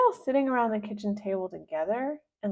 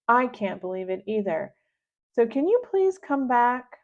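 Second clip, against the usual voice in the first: higher, loud urgent pleading into the phone; calling for help; 4 semitones higher, 6 dB louder than usual. Acted. Girl on banana phone to Mister Nuggy, urgent higher plea.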